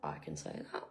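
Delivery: awed. Retold or imitated. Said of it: "And I was like".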